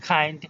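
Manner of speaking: "কাইন্ড" with a puff on the k; airy k opening "কাইন্ড"; aspirated K. Shown as a demonstration. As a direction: say "কাইন্ড" with a kh onset. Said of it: "সবগুলোই তোমরা খ উচ্চারণ করবে".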